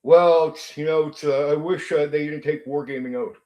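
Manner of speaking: mock backpedaling. YouTuber mimicking rivals after his video, mock backpedaling. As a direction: stumble through a half-hearted retreat, mimicking. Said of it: "And then suddenly, after I do my video".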